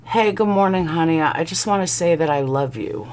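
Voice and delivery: mock sweet texter. Other woman texting her lover, mock sweetness. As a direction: read it out in a soft mock-sweet lilt.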